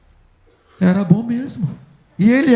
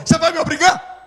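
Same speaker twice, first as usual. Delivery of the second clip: tearful laugh; 7 semitones higher, 4 dB louder, faster than usual. Retold or imitated. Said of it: "Chorando e já me brigando comigo".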